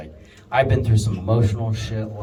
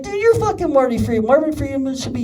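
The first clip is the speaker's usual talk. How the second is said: pitched-up fanboy rave; excited gushing; 13 semitones higher than usual. Retold or imitated. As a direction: gush at him like a starstruck fan. Gushing praise to guitarist.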